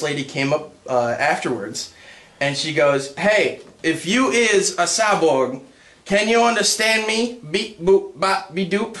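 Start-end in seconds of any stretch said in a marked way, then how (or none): 3.2-9.0 mock robot talk. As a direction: talk down to a cyborg. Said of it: "That's mildly racist".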